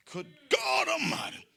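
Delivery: wailing preacher cry; mock crying exclamation. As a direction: moan it like a church cry.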